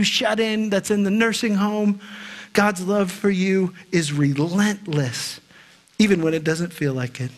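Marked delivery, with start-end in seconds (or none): 2.5-7.3 slow, deliberate and lower, weighing each word; slow emphatic truth. Shown as a demonstration. Preacher to congregation on God's relentless love, slow and weighty. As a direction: let the truth sink in slowly. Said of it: "Isn't that a powerful truth?".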